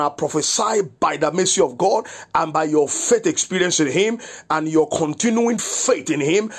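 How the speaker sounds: forceful, declarative preacher's blessing; prophetic prayer. Real, not acted. Pastor prophesying protection over the listeners, fervent declaration. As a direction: pronounce it over them with rolling, emphatic authority.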